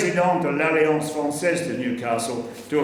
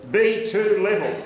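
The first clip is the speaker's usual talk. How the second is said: a hint of an insistent teacher, higher and slow; Marie-Laure's voice; 5 semitones higher than usual. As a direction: lightly voice a pushing teacher. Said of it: "I heard the voice of Marie-Laure in my ears saying".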